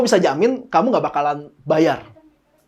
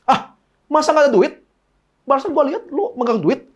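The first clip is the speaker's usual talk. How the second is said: mock disbelief; 6 semitones higher than usual. Pastor challenges Novi's excuse.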